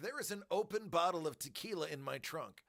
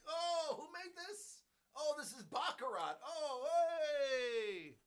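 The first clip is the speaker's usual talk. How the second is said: high airy rich-person voice; hammed-up snob nearly dropping glass; mock posh fumble; 9 semitones higher than usual. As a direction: play a careless rich snob, pitched up.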